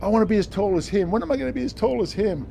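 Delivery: lightly voiced wishful child; imitated kid. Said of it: "when you're a kid".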